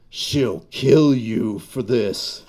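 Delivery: slow, alien menace; a slow, creeping spider warning; menacing spider voice. Acted. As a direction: drag each word out like a monster's threat. Monster spider threatens narrator.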